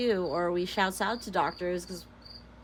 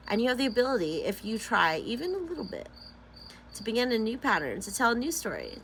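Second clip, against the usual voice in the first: measured book-reading voice; lightly performed self-help reading; reading aloud. Acted. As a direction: read the passage out earnestly.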